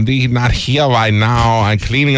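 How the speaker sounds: slow, hammed-up answering voice; over the top. Prank-answering a caller with a hammed-up slow voice. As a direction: ham it up as the help. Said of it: "I'm just being over the top".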